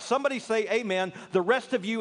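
ordinary delivery

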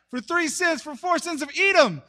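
high, rising to a loud finish; yelled proclamation. Retold or imitated. Amos denouncing Tyre to the crowd, yelling. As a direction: build up to a shouted TYRE. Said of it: "he goes on like this".

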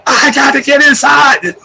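high, drawn-out crowd yell; high-pitched imitated clamour; mock yelling. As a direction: imitate someone yelling to get in, without full volume. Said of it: "like, yelling".

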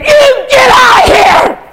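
high shouted quote of the woman; retold shout. Preacher retelling a woman's outburst, high shout. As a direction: yell her out the door. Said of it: "She said".

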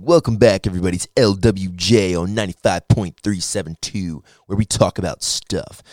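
loud, upbeat radio DJ greeting; radio host voice. Shown as a demonstration. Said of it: "like, radio host voice".

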